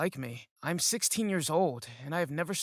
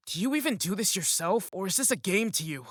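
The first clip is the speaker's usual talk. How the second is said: raised, higher-pitched accusing question; frustrated challenge; 4 semitones higher, 4 dB louder than usual. Acted. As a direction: challenge your mentor in frustration. Tension grows, Zane challenges Kareem.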